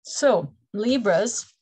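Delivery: slow words stretched through a real yawn. Real, not acted. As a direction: say it mid-yawn. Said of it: "forgive me yawning".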